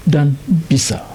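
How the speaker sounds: hushed whisper of relief. Real, not acted. Quiet aside after the prayer.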